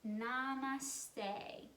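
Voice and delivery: Namaste said softly, bending forward; a hushed namaste as you bow. Shown as a demonstration. Teacher leading kids in a bow, softly saying namaste. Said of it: "say the word together".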